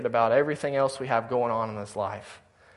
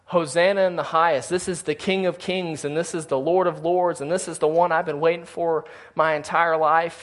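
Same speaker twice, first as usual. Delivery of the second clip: mild mock cheer, pitched higher; retold crowd yelling; 4 semitones higher, 3 dB louder than usual. Preacher imitating people hailing the King of Kings, mildly yelled. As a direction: imitate an excited crowd without fully yelling. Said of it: "people went from yelling".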